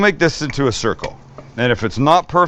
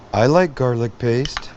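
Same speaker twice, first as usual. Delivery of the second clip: light put-on voice for the cameraman; a hint of a different voice, playfully; voicing Max. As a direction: speak for Max behind the camera. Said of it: "This is Max from behind the camera".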